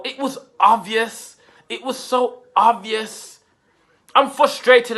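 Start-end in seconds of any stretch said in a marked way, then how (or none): 1.7-3.4 slow, with "so" stretched and rising; stress on so. Shown as a demonstration. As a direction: drag out "so" in exasperation. Repeated with added so.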